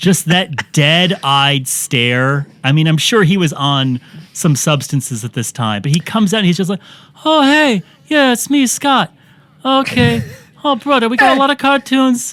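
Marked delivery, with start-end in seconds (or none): 7.2-12.3 put-on voice, pitched very high. Describing how he came out and greeted everyone, in a Mark Wahlberg impression. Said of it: "I know I'm doing the "say hi to your mom for me" impression of Mark Wahlberg".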